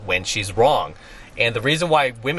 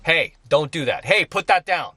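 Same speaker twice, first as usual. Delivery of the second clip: firm scolding; 3 semitones higher than usual. Retold or imitated. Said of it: "and I'm like".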